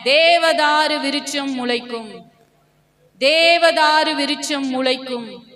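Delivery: very slow, drawn-out proclamation; slow declaration. Real, not acted. Preacher leads believers repeating the promise, declaring very slowly. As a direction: stretch every word like a chant.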